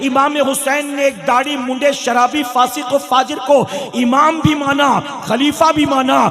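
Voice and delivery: loud, indignant retort of a sinful imam in the preacher's own voice; defiant false imam. Retold or imitated. Sinful imam scolding a worshipper who questions him, loud defiant retort. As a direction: throw the challenge back at the worshipper. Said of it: "तो वो कहता".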